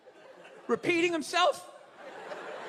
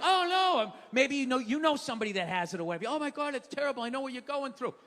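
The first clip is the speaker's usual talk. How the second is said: mock sympathy; 4 semitones lower, faster than usual.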